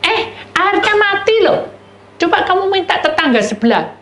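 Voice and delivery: high, loud call of the neighbour to his wife. Retold or imitated. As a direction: call across the house, urgent. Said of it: "Dia itu bilang gini".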